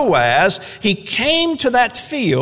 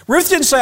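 "didn't" punched high and loud; stress on didn't; 10 semitones higher, 4 dB louder than usual. Real, not acted. Preacher stressing what Ruth didn't say, high and loud. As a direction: hit "didn't" hard. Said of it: "emphatic repetition".

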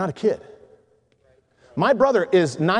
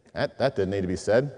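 inner thought; 11 semitones lower, 6 dB quieter than usual. Retold or imitated. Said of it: "And I'm thinking".

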